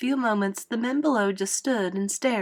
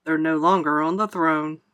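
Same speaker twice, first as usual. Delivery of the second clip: lightly voiced, lower-pitched fireman; fireman's dry remark; 4 semitones lower than usual. A narrator's reading. Fireman quips about the Spanish royals, dryly. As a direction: drop the pitch a little for a dry quip. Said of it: "said a fireman".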